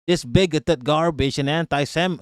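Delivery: put-on half-hearted Valley accent. Streamer reading her complaint, weak Valley accent. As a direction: attempt a Valley accent and do it badly. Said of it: "I gotta do a Valley accent".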